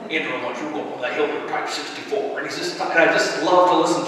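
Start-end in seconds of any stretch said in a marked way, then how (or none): 0.1-2.4 lightly imitated Southern drawl; a hint of a Southern platoon leader. Platoon leader orders Andrew up the hill, light Southern drawl. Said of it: "most awesome Southern drawl".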